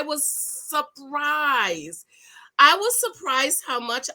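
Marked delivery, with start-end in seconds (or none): 0.0-2.0 slow breathy whisper, drawn out. Real, not acted. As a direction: whisper it like a secret, very slowly. Whispered take before plain repeat.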